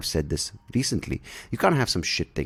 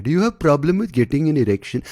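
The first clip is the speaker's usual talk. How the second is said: higher, polished ad-host voice; polite ad pitch; 8 semitones higher, 4 dB louder than usual. Retold or imitated. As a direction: pitch it like a slick ad. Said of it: "they don't say it obviously like that".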